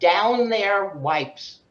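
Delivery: "Down there wipes" read slowly, each word spaced out; slow product name. Retold or imitated. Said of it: "It said".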